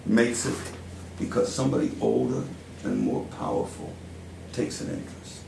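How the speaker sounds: put-on deliberate New York-accented stage monologue, long pauses; Al Pacino-like monologue. Powerful mentor drawing Joe in like family, Pacino-style monologue. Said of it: "channeling Al Pacino".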